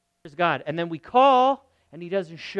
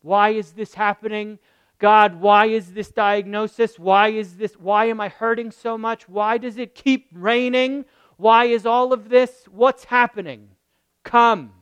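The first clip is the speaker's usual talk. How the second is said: louder, pleading cry of why to God; desperate plea; 7 dB louder than usual. Retold or imitated. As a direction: cry out like someone in pain begging God to come. Voicing people crying out to God.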